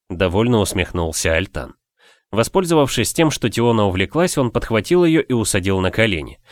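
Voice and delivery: ordinary delivery, nothing marked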